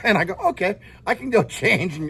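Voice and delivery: talking through a chuckle; amused laughing. Real, not acted. Teacher answering student who said he smells, laughing. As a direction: chuckle while telling your own comeback. Laughing after his accent story.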